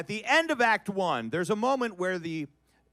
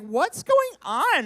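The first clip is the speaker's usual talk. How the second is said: mock panic; 12 semitones higher, 6 dB louder, much slower than usual. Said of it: "I'm like".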